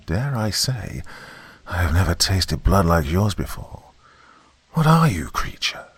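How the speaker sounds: put-on an old river god, distant as an echo; menacing giant snake, a hint of echo; ancient serpent voice. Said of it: "that sounded low and ancient".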